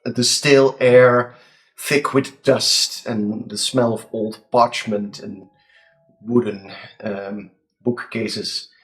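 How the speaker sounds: slow, hushed scene setting; game master narration. A narrator's reading. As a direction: set the scene slowly, with suspense. GM describes the dungeon.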